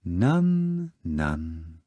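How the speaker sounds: softly soothing, sinking to a hush; calm him like a kind nurse; a kind nurse soothing her patient. Acted. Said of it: "soothed the kind-hearted Praskovia Fyodorovna".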